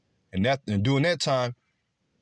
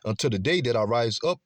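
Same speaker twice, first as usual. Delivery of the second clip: declaimed verse, lifted at the opening; scripture reading. Acted. Preacher reading Zephaniah to listeners, declaimed scripture reading. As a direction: proclaim the verse with swinging emphasis.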